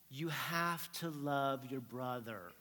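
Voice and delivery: slow, stretched-out motherly admonishment; lightly voiced mom. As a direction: lecture your child slowly, lightly acted. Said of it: "my mom's like".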